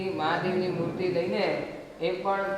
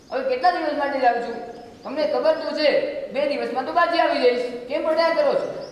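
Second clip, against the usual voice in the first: scolding wife; 4 semitones higher than usual. Acted. Wife scolds crying husband on platform.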